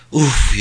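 acted "oof" of pain; pained groan. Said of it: "yaptı". (acıyla inleme)

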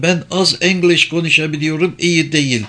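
high female character voice; German woman. Acted. German woman with little English.

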